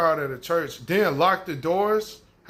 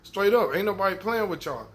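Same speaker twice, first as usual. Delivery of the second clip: mock aggressive demand; 2 semitones higher than usual. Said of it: "he was getting aggressive".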